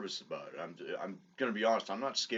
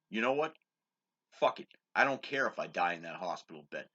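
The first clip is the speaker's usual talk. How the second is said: defiant outburst; 5 dB louder than usual. Retold or imitated. Retold outburst standing up.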